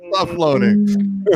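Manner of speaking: mock-slow teasing command; slow drawn-out. Shown as a demonstration. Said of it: "repeats it drawn out".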